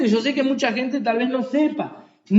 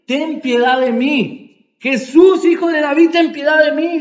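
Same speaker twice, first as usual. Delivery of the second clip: loud pleading cry, pitched up; blind man crying out; 2 semitones higher, 4 dB louder than usual. Retold or imitated. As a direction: beg at full voice for mercy. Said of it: "Él comenzó a gritar". (el ciego clamando a Jesús, súplica fuerte)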